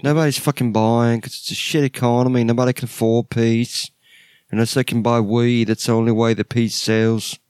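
a hint of a stoner bassist. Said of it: "eventually I sound like the bassist".

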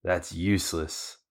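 mock evil laugh that drops into a slow sneer; hammed-up villain cackle, then slow scorn. Arlong mocking Luffy's attack, mock evil laugh. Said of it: "Arlong's like".

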